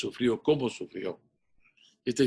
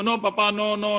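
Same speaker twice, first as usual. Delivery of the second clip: desperate no; 8 semitones higher than usual. Retold or imitated. Boy crying out no to his father, high and desperate. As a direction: cry out no in desperation.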